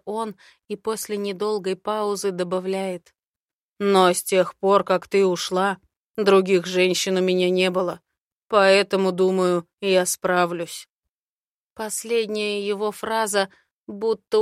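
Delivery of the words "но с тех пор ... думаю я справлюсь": slightly louder, lightly voiced man; a hint of a confident dragon man; Aaron's voice. Aaron's held voice. (уверенный мужской голос)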